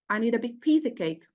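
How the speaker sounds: quick line with stress on "big" and stronger on "piece"; adjective and noun stressed. Shown as a demonstration. Teacher gives another example, stressing "big piece" and "cake". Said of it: "the adjective and the noun are stressed".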